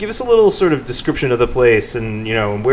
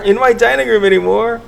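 announcer voice; 9 semitones higher than usual. Acted. Continues hammed-up intro.

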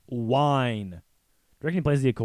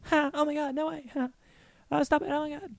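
high squeaky bear cub giggle; shocked laughter. Retold or imitated. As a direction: squeal like a tiny playful cub. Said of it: "you hear little".

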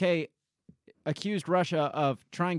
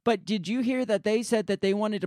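higher, louder mock stammering protest; put-on pleading objection, pitched up; 6 semitones higher, 4 dB louder than usual. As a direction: imitate someone butting in desperately. Mimics UK's flustered protest.

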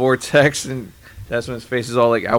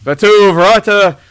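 drawn-out magic words; 7 semitones higher, 6 dB louder, much slower than usual. Retold or imitated. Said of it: "It's like".

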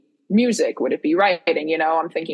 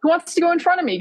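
high eager ask; 11 semitones higher, faster than usual. Retold or imitated. Retold eager offer in line.

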